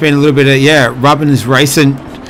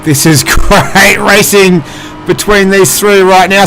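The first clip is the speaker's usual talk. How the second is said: excited; 4 semitones higher, 4 dB louder than usual. Real, not acted. Excited commentator on close battle.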